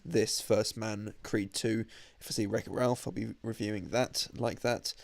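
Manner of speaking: a slightly nasal voice from allergies; nasally voice. Real, not acted. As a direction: speak a little through the nose, allergy-blocked. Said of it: "apologies for my slightly nasally voice".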